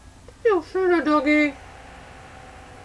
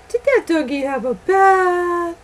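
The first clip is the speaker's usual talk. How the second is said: thrilled squeal to the pug; excited squeal; 4 dB louder than usual. Real, not acted. Excited baby talk to dog.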